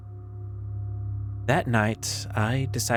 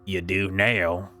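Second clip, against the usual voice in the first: dry, patient voice; slower than usual. Acted. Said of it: "It was dry, patient".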